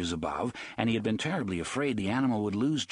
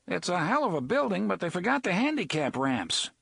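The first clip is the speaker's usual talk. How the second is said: raised, high voice calling over the storm; yelled over rain; 9 semitones higher than usual. Acted. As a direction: shout to be heard over thunder. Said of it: "Eddie yelled".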